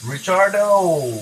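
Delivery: slow, loud, high name call; drawn-out call. Real, not acted. Streamer calls out to a viewer, drawn out and playful.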